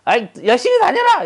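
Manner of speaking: hammed-up brash holler at old teacher; cocky shout. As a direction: call out across the street, smug and careless. Ex-student shouts while driving off.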